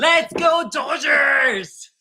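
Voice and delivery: laughing, drawn-out cheer; hype shout. Acted. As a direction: chant it slow through laughter. Hype chant while laughing.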